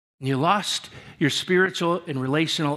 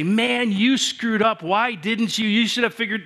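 higher-pitched imagined telling-off; mock scolding; 5 semitones higher than usual. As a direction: scold someone for messing up, hammed-up. Acted scolding that did not happen.

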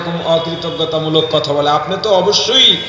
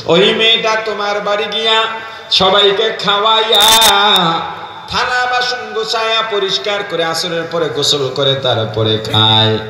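melodic preaching; 2 semitones lower than usual. Real, not acted. Preacher intones bride's story. (সুর নামিয়ে টেনে টেনে করুণ ওয়াজ)

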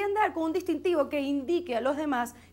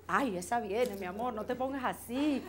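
soothing calm; 4 dB quieter than usual. Acted. Soothing partner.

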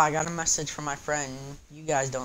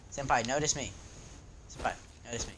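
half-hearted senpai plea; 3 semitones lower, 5 dB quieter than usual. Pretend.

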